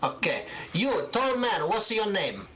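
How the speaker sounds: put-on high old shopkeeper voice, Italian lilt, showing off her wares; an elderly seamstress boasting of buttons from Genova; proud old Italian seamstress. Gilda asks their names.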